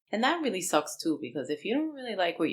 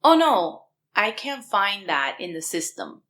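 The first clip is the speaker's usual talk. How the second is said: imitating the agent; 4 dB louder than usual. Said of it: "she says to me".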